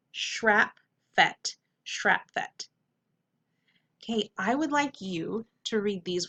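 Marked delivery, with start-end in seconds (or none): 0.1-1.6 shrap, fet as separate beats; syllable by syllable. Shown as a demonstration. Teacher sounding out the word for students, syllable by syllable. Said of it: "Whole word". 1.8-2.7 shrap, fet run together; blended whole word. Shown as a demonstration. Teacher reading the whole word to students, blended. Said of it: "Whole word".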